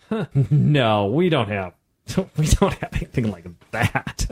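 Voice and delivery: amused chuckling no; laughing. Retold or imitated. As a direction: answer through a chuckle. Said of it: "and they kinda smile, like".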